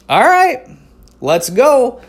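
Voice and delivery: a fed-up mom finally taking the bait; mom snapping. Retold or imitated. Mom grabbing the bratty kid in the mall, high mock threat. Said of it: "And she was like".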